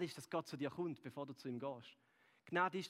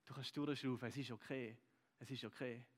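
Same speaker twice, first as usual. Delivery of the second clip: softer and fading, letting out a breath; gentle reassurance; 3 semitones lower, 3 dB quieter than usual. Retold or imitated. Grace telling listeners to breathe, softly fading reassurance. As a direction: say it as if permission to breathe out. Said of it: "die sagt, hey".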